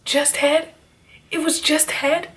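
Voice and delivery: mock-shocked repetition; incredulous. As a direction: echo his words back in disbelief. Incredulous retort to his excuse.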